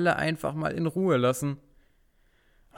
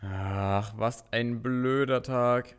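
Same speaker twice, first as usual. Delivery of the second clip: grumpy; slower than usual. Acted. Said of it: "zwei gänzlich unterschiedliche Stimmungen".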